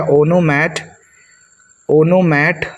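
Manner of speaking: ओनोमैट said slowly as "ono-mat"; piece-by-piece pronunciation. Shown as a demonstration. Teacher building the word for students, ओनोमैट slow and clear. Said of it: "तो मैट पढ़ सकते हो".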